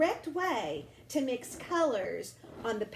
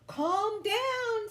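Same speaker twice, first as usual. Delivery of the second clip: soothing mother; 8 semitones higher than usual. A narrator's reading. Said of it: "said Mama".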